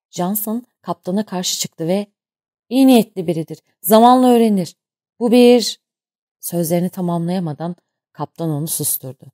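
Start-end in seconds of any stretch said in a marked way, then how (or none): 2.7-5.8 loud, higher pleading defence; defiant protest. A narrator's reading. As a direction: stand up to the captain. Johnson defends the boy. (Johnson kaptana karşı çıkıyor, yüksek sesle)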